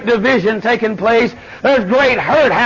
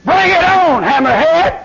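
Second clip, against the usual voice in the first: a preacher yelling his dare at the devil; shouted defiance; 6 semitones higher than usual. Retold or imitated. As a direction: throw the challenge at the devil full voice. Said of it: "when I talk like that".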